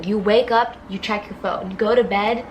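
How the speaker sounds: usual speaking voice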